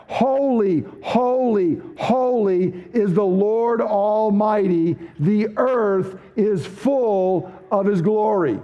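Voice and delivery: slow, solemn proclamation of holy; angels crying out. Retold or imitated. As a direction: draw out each holy like a hymn.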